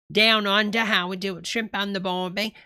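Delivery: lightly put-on Australian accent; mock Australian accent. Streamer mimicking the video host's shifting accent, mock Australian. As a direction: do a passing imitation of an Australian accent. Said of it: "sometimes it sounds like he's talking".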